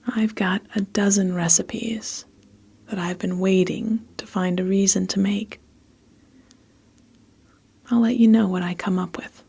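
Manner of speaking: measured, evenly phrased storytelling; story narration. A narrator's reading. Narrator recording a story for listeners, measured storytelling. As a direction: read it steadily with pauses between phrases. Reads a story between retakes.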